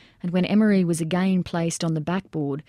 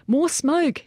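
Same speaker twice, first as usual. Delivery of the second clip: yelled order; 9 semitones higher than usual. A narrator's reading. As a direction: demand it across the roof. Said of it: "Jager yelled to him".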